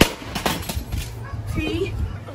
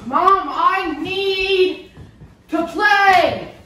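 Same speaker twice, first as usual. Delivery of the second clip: drawn-out sung whine, slow; whiny singsong; slower than usual. Real, not acted. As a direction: whine it like a sulky chant. Kid whines to mom.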